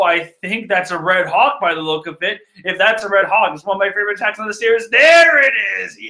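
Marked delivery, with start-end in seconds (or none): 4.9-6.1 loud, high burst of joy; excited shout. Real, not acted. Fan shouting as his favorite attack lands, excited. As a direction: yell it out in real delight.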